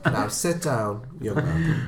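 slow, lightly voiced stern elder; mock stern. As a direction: drag it out like a schoolmaster. Mock stern teacher scolding.

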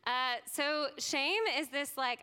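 ordinary delivery

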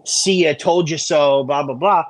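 condescending. Pretend. Host mimicking a told-you-so to listeners, condescending. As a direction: draw out a smug told-you-so. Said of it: "I'm not gonna say it like that, like, you know, condescending".

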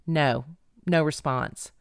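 usual speaking voice

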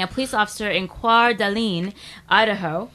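"Coeur d'Alene" in a French accent. Shown as a demonstration. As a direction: say "Coeur d'Alene" as a French speaker would, "kwar". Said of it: "got to use my French accent there".

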